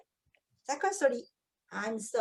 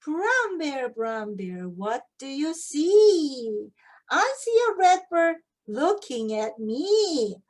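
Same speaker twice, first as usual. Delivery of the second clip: storybook read-aloud; 4 dB louder, slower than usual. Shown as a demonstration. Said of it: "reading book aloud, slow".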